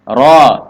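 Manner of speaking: "ro" kept open and back; firm open "ro"; thick, unrounded ro. Shown as a demonstration. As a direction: say "ro" heavily without pushing the lips forward. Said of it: "tidak goyang ke depan".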